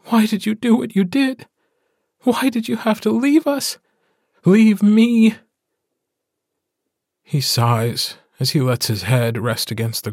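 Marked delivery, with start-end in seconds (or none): 0.1-5.3 much higher, rising to louder on the last words; wife confronting her mate about leaving; demanding, anguished. A narrator's reading. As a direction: demand the answer with hurt rage. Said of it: "she demands".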